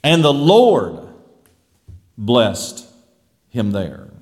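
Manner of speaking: "Lord" leaned on, then "blessed" and "him there" dropped low; stress on Lord. Shown as a demonstration. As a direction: lean on "Lord", pause, let "blessed" fall away. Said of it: "we could put emphasis on different words".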